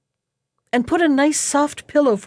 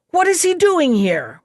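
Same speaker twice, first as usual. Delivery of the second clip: angry ogre demand; 6 semitones higher than usual. A narrator's reading.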